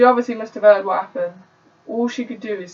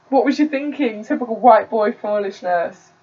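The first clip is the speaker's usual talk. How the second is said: put-on a light Jamaican accent, scolding, pitch pushed up on "What was you thinking". Narrator retakes Delroy's mum scolding him, light Jamaican accent. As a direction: retake the Jamaican mum's telling-off. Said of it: "I don't wanna do that accent".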